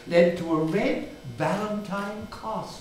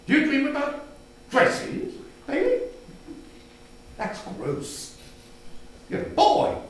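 mocking brother; 5 semitones higher than usual. Brother mocks Bailey.

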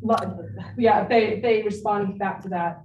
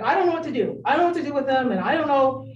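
a hint of the friend's upset, pitched up; quoting a frantic friend, mildly raised; 4 semitones higher, much faster than usual. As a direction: lightly voice a worried mother. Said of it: "She was really angry about it".

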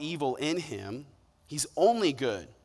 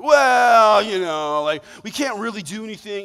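evasive excuses; 4 semitones higher, 7 dB louder than usual. Retold or imitated. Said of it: "giving you all the runaround".

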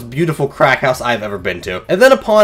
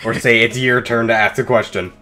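measured, lower-pitched line feeding; 4 semitones lower than usual. Shown as a demonstration. Slowly coaching partner on the line.

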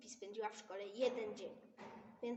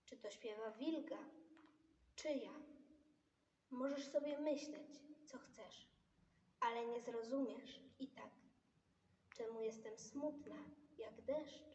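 poem recital. Acted. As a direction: recite it gently and sadly. Child recites a sad poem.

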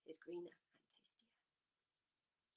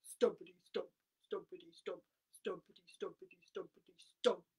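slow stomping; 6 dB louder than usual. Shown as a demonstration. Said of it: "so we'll do this slow".

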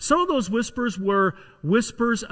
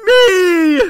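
very high, loud, drawn-out squeal; giggly little child; 12 semitones higher, 11 dB louder than usual. Acted. Little boy revealing whom the search team seeks, giggly squeal. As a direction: squeak it out like a gleeful small child. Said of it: "with a whispering giggle".

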